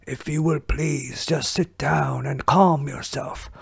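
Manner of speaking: put-on whispery old ninja master; Splinter voice. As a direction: wise rat sensei, hushed and grave. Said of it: "So I wanted to try Splinter out".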